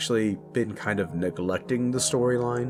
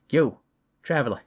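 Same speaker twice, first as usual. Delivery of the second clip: lightly acted urgent father, pitch raised; insistent father; 3 semitones higher than usual. Father enlisting the traveler to rescue his kids, insistent. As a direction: press the listener to come along, a touch heated.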